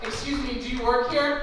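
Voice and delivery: pursed-lip passive aggressive. Pretend. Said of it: "your lips purse up".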